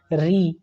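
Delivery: री drawn out slowly as a demo sound; sounding out letter. Shown as a demonstration. Teacher slowly demonstrates री to students. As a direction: stretch री slowly so students hear it. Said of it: "मूर्धन्य वर्ण उसको कहते हैं, जैसे".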